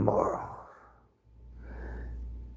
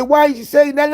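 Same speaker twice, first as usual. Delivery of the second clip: much higher, louder retold question; high mock friend's question; 4 dB louder than usual. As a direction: play the friend asking, pitched up. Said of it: "she said".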